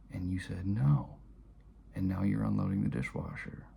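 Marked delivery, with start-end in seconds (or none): 0.7-1.2 sharp, high, loud no; loud curt no. Retold or imitated. Father flatly refusing his son, a loud curt no. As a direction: slam the answer shut.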